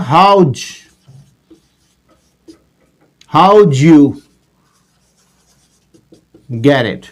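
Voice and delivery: "how'd you get it" as howdj, howdju, geddit, long pauses between; squeezed native blend. Shown as a demonstration. Teacher revealing the native delivery, squeezed in chunks. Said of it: "They deliver the letter".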